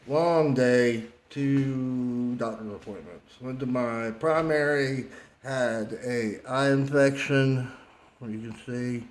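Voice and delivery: talking around a lip of dip; lip full of dip. Real, not acted. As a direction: speak with tobacco in the lip. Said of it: "I have a dip in my mouth".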